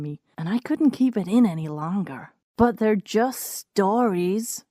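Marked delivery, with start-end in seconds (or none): 2.6-4.6 announcing. Retold or imitated. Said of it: "I announced".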